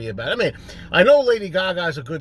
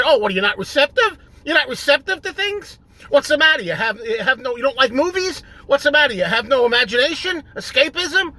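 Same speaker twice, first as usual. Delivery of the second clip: mocking taunt; 3 semitones higher than usual. Turning it on the friend with a mocking taunt. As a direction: throw his own words back at him. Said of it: "Here's a dose of your own medicine".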